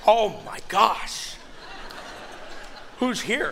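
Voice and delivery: mock panic. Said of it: "And I'm like".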